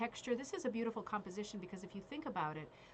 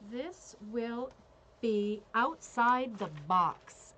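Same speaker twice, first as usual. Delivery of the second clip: slow, drawn-out call, much louder; bingo caller; 7 dB louder, much slower than usual. Pretend. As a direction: stretch each word like calling a bingo number. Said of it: "let me tell you what call this is".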